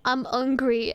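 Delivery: "hungry" said without its H, as "ungry"; dropped H. Retold or imitated. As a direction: imitate French speakers dropping the H in "hungry". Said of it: "don't pronounce H at the start".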